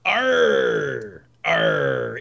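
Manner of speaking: drawn-out pirate "arr"; pirate growl. Acted. Co-host joking along in pirate style, pirate growl. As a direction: let out a long pirate "arr". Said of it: "Pirate style".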